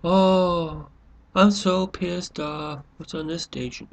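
mock couch potato. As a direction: play a lazy viewer faking outrage, then flipping channels. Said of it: "We sit there and go".

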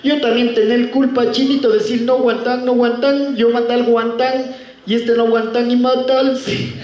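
hammed-up Chinese widow grieving; mock Chinese accent, lamenting. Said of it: "La chinita frente al ataúd del chino decía".

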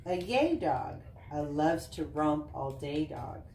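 bouncy sing-song picture-book reading; reading to children. Acted. Mom reading a dog book to Easton, sing-song read-aloud. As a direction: read the rhymes with a lilt for little kids.

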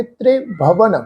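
ਤ੍ਰਿਭਵਨ as "tre-bhavan", short light e; soft pronunciation. Shown as a demonstration. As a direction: keep the first syllable of ਤ੍ਰਿਭਵਨ soft. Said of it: "ਪੋਲਾ ਜਿਹਾ ਉਚਾਰਨ ਕਰਾਂਗੇ". (ਤ੍ਰਿਭਵਨ ਪੋਲਾ ਜਿਹਾ, "ਤ੍ਰੇ" ਵਾਂਗ)

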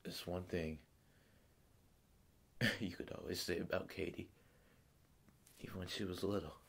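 subdued reminiscence in short halting phrases; grieving father monologue. Acted. Father recalling his dead daughter Katie to Dave, subdued and halting. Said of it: "doing a monologue from the movie Mystic River".

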